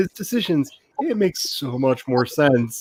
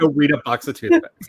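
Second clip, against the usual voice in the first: laughing repeat. Shown as a demonstration. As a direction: shout it through a laugh. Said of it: "For anybody who doesn't know".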